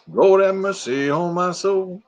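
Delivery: slow, drawn-out mock plea; hammed-up slow lament; mock preacher. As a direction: stretch it like a hammed-up prayer. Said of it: "Picture says".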